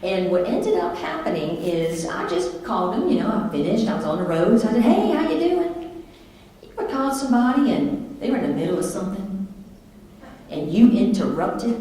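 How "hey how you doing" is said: high, slow sing-song hello; cheerful greeting. Retold or imitated. Wife calling husband from the road, cheerful greeting. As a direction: greet him breezily, stretched out and high.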